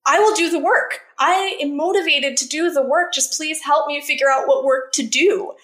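retold rage. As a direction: relive the anger at the therapist, pitch up. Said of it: "raging at this lady".

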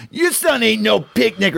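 quoting the mom. Retold or imitated. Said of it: "or what is it?".

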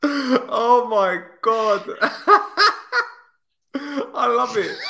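breathless laugh through it; can barely speak for laughing. Real, not acted. Laughing at the statement.

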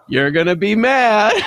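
teasing singsong warning, laugh breaking in at the end; excited daughter. Retold or imitated. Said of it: "'cause she's super excited".

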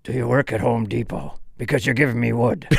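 Liam Neeson impression. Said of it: "is that Liam Neeson".

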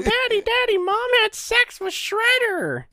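put-on very high squeaky child voice; exaggerated high-pitched kid; little kid. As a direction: squeal it like an excited child telling on mom. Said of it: "Kid goes home".

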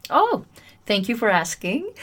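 bright surprised thanks; friendly. Shown as a demonstration. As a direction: answer warmly, unbothered. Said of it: "respond in a friendly and peaceful warrior kind of style".

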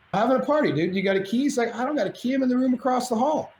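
high-pitched back and forth; high excited exchange. Retold or imitated. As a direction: pitch both voices up. Retold door exchange, high voices.

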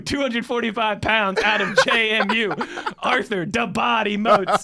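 boxing announcer calling the fighters; fighting game announcer. Retold or imitated. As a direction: ring announcer, laughing through it. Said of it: "in my best announcer voice".

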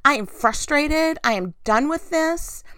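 emphatic, acted venting to God; raw frustration. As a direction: let out pent-up frustration. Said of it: "It is the raw emotion".

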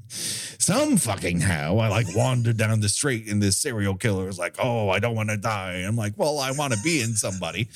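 lightly voiced old demon; a hint of a seasoned old guy. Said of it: "I'm that demon".

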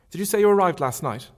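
a hint of a brisk young lady asking; Marion. Marion voiced in reading.

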